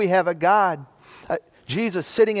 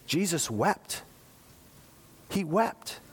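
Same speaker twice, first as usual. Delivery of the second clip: much softer, nearly a hushed murmur; hushed and solemn; 8 dB quieter, slower than usual. Real, not acted. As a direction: let the grief sit in a near-hush. Preacher recounting Lazarus's death.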